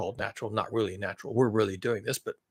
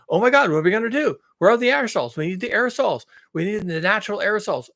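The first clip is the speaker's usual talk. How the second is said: mock fretting, pitched up; sarcastic panic; 4 semitones higher than usual. Mocking those who miss the aerosols, sarcastic panic. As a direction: plead in pretend panic. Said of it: "I'm being sarcastic here".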